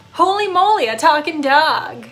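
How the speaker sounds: high, loud shocked cry; mock astonished bartender. Dog acting out the bartender's shock, loud and high. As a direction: gasp it out like the bartender can't believe it.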